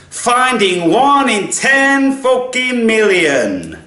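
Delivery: very high, loud, slow gung-ho declaration; pumped-up self-talk. Retold or imitated. Recalling himself in line, loudly psyched for his quest, very high. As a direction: announce the mission like a hero. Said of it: "I'm like".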